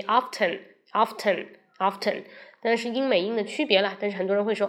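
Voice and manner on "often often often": often said slowly, several times; slow model often. Shown as a demonstration. Teacher models how we say often. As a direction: repeats often carefully for copying. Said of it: "we say".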